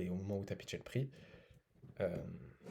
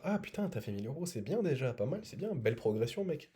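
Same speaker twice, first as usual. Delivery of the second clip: high, eager, overly impressed; gushing praise; 4 semitones higher than usual. Retold or imitated. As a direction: gush over the prospect. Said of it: "beaucoup de gens en appel qui vont dire".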